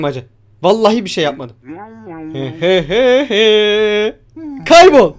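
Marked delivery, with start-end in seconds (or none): 2.3-4.2 slow, drawn-out "he he he"; spaced-out pretend laughter; mock laugh. Imitated laugh at the clown. 4.7-5.1 sudden loud, high yell; explosive angry holler; dismissive shout. Real, not acted. Yelling at character to get lost.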